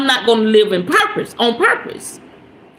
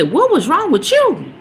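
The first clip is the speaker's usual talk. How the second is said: mock challenge with swooping, sing-song pitch; exaggerated what's-your-problem quote; called-out challenge; 5 semitones higher than usual. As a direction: imitate someone calling you out, pitch swinging up and down. Voices someone calling her out.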